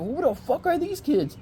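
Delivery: high, slow baffled question; acted incredulity. Man woken by unknown kids, acted incredulity. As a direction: stretch it out in mock disbelief. Acting shock at kids jumping on him.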